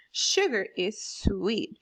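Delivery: "Sugar is sweet" slow, with measured beats; stressed syllables. Shown as a demonstration. Teacher demonstrating meter to class, "Sugar is sweet" in slow stresses. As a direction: draw out "Sugar is sweet" beat by beat. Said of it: "you hear a little stress in my sounds".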